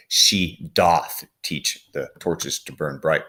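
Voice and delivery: put-on slow, deliberate reading of the old line; slow Shakespeare reading. Teacher reading the line aloud to the class, slow and deliberate. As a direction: savour each word at a slow pace. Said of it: "they would say".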